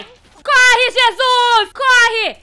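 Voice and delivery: high, very loud yelling on the run; frantic shouting. Real, not acted. Gamer sprints past monsters and her plan works, frantic shouting. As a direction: shout urgently, then in wild relief.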